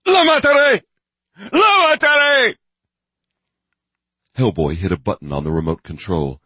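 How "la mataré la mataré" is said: high, loud repeated furious scream; murderous rage. Acted. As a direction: threaten with mad fury. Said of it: "eyes blazed wide with murderous insanity".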